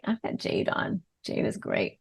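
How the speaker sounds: whispered under the breath, voiceless; whispered aside. Real, not acted. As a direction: let it slip as a secret aside. Whispered aside about her jewelry.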